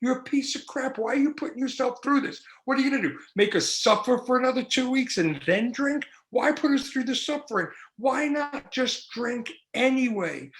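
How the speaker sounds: tempting inner voice. Retold or imitated. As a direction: needle yourself like an addict's whisper. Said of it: "the voice says this".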